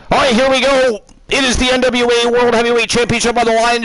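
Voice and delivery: fast, pumped match call; hyped announcer. Acted. Streamer kicking off the championship match, hyped announcer. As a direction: hype the crowd for the title.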